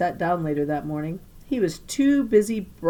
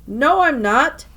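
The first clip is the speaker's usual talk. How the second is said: loud, higher denial; insisting; 7 semitones higher, 8 dB louder than usual. A narrator's reading. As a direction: deny it hard, on the spot. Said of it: "Jason insisted".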